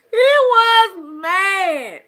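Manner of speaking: drawn-out, high, loud "He was mad"; emphatic. Real, not acted. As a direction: stretch "was" and "mad" loudly. Emphatic repeat after laughing.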